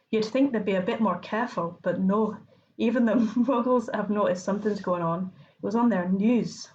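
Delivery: lightly attempted Scottish accent; a hint of amateur Scottish; McGonagall's bad Scottish accent. Professor complaining about careless celebrations, light Scottish accent. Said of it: "Sorry for the bad Scottish accent".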